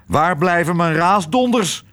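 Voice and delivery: an officer demanding his dinner; impatient call. A narrator's reading. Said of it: "riep de admiraal".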